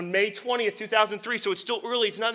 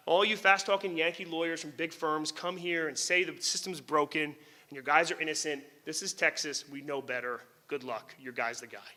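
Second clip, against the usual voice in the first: scornful, fading quieter to a smug close; lightly voiced Texas prosecutor brushing him off; dismissive DA; 3 semitones lower, 3 dB quieter than usual. Prosecutor telling the defense lawyer to give up, with scorn. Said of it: "here's what they said. This, literally".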